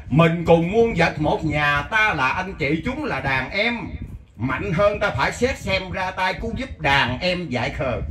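slow, measured chant of the verse; slow verse recitation. Acted. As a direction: lay out each line of the poem slowly. (ngâm thơ chậm rãi)

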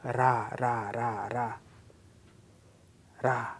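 "ra" as one light tongue tap; flipped R. Shown as a demonstration. Teacher drilling the Korean flapped R, "ra". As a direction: flap the tongue once on "ra". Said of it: "a little bit different".

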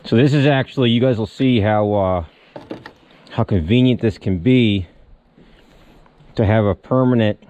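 talking with something in mouth; mouth full. Real, not acted. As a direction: speak around a metal piece in mouth. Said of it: "sorry, I got something in my mouth here".

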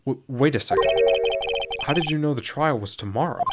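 understated acted surprise; mildly startled. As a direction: stammer in, then question with a touch of alarm. Hero catches lawyer out.

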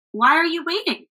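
high, urging call; eager cry. A narrator's reading. Travelers pressing the hesitant crowd, eager cry. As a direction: hurry the villagers along. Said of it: "cried the travelers".

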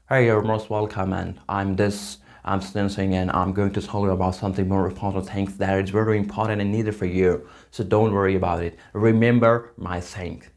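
attempted American accent. Shown as a demonstration. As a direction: speak as Americans do, lightly imitated. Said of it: "American people speak like this".

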